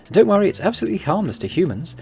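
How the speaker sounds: lightly voiced Eastern European accent. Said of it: "doing a Russian accent for this guy".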